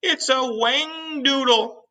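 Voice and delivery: slow, high yell. Acted. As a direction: stretch out the monster name. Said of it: "yelled the head of the fire department".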